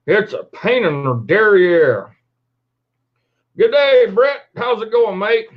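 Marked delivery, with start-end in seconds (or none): 3.6-5.5 hammed-up Aussie "Good day, mate", higher and louder; mock Australian greeting. Host greets an Aussie viewer on Australian Day, mock Australian accent. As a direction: throw a cheery Australian accent at him.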